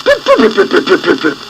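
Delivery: high stubborn little peeps; defiant chick peeping. A narrator's reading. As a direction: peep back at mother, stubborn. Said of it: "But Pip-Pip said".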